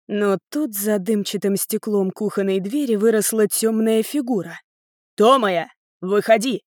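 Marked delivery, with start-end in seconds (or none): 5.2-6.6 loud roar at a hiding daughter-in-law; angry roar calling her out. Acted. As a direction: bellow her name through the door. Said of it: "заревела она".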